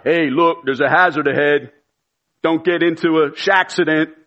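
lightly imitated navigation call-out; Shaq's voice. Celebrity navigator warns driver of a hazard, lightly imitated voice. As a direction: call out a hazard in a mild impression. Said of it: "Shaq's voice. And as we were driving down the road, he would shout out".

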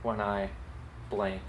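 slow, clear dictation; slow dictating voice. Shown as a demonstration. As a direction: read it slowly for people to write. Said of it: "write down these two sentences".

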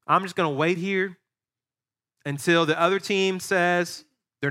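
mock a player who won't show up; whiny reluctant player. Pastor voices reluctant player.

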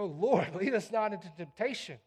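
a prayer of dependence, earnest then hushed; pleading prayer. Retold or imitated. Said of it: "It's like".

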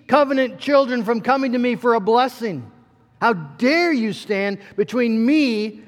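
holy indignation. Acted. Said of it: "hear the holy indignation in his voice".

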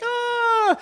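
sudden high panicked yelp; short startled shout of alarm; panicked cry. Retold or imitated. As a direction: blurt it out in a flash of panic. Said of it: "in that panic mode where you're like".

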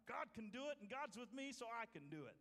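lightly acted confident believer; voice of faith. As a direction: declare it like a battle cry, mildly. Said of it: "That's a voice of faith".

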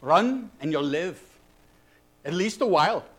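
put-on measured reply with a light Scottish accent; poor Scottish brogue. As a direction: answer the doubter in a hint of brogue, with pauses. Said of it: "Forgive my poor brogue".

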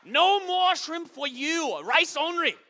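very high, loud, slow put-on Asian accent laying down the law; hammed-up Asian accent, the owner rationing his food; the owner cuts off the shrimp, loud mock Asian accent. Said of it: "That's what they said".

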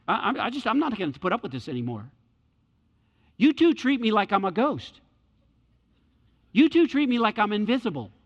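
loud, indignant protest; offended complaint. Pretend. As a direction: complain like you've been ignored. Holy Spirit voiced as offended.

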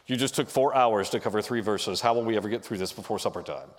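lightly voiced heroic complainer, quick at the end; a hint of an epic hero grumbling; mock Greek hero, barely put on. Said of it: "In your Greek hero voice".

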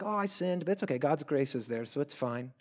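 softly tossed-off mock excuse; imitating someone casually excusing themselves; callous, lighthearted. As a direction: shrug the words off as no big deal. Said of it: "we're so callous or lighthearted about our sins".

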